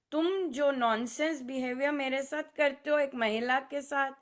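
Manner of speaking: ordinary talk, nothing marked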